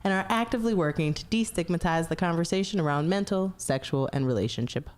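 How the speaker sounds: polished customer service voice. Acted. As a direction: read it like a friendly call center agent. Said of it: "That was a customer service voice".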